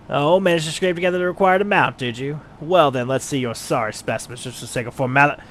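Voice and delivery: gruff rival miner, astonished then grudging; a bristling craftsman who hates losing; proud miner Wide Gully. Acted. Player voices miner Wide Gully conceding to the adventurer, gruff.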